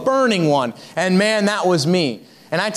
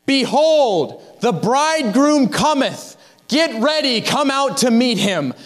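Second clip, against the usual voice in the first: the burning one's call; 5 semitones higher than usual. Retold or imitated. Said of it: "It's the one who says".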